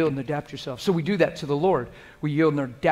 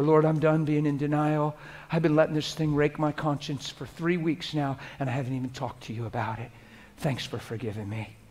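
humble sincere prayer; 5 dB quieter than usual. Shown as a demonstration. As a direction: speak it humbly, alone with God. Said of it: "And you just close the door".

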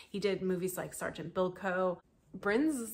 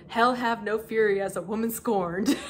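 mock dramatic shout; 3 semitones higher, 8 dB louder than usual.

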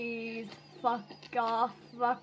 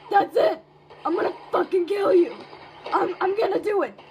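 higher, louder, fast threats; rage quit; 4 semitones higher, 4 dB louder, faster than usual. Real, not acted. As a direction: lose it and rage.

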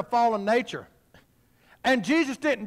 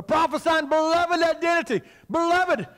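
forceful preaching; 7 semitones higher than usual. Real, not acted.

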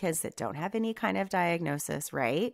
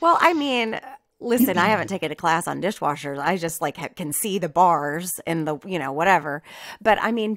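louder, amused self-defense; laughing protest; 7 dB louder than usual. Real, not acted.

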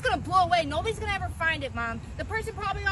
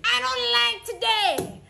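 tantrum wail; 4 semitones higher, much slower than usual. Acted. Kid's catchphrase tantrum.

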